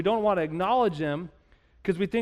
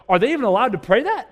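higher, louder incredulous question; puzzled disbelief; 4 semitones higher, 5 dB louder, faster than usual. Acted. Believers reacting to Job's bold prayers, puzzled disbelief. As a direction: ask it as if scandalized. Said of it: "we kind of scratch our heads and go".

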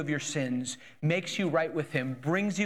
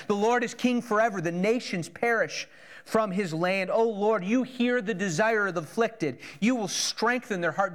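praise; 4 semitones higher than usual. Shown as a demonstration. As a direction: lift it up as praise. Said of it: "That's praise".

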